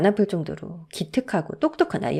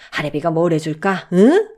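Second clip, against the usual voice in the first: eager coaxing question; 2 semitones lower, 3 dB louder than usual. Acted. Grandfather asks what gift he wants.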